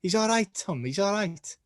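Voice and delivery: bad Scouse accent. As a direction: botch a Liverpudlian impression. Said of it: "Apparently, I can't do Scouse accents".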